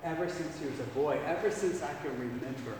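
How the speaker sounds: soft, heavy-hearted answer; quiet, worn-down reply; the father telling Jesus of his son; weary father. Acted. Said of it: "Father's like".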